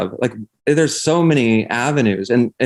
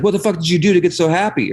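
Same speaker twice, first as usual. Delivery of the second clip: high, incredulous question; amazed villagers; 8 semitones higher than usual. Retold or imitated. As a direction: ask in astonished disbelief, much higher. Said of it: "everybody's like".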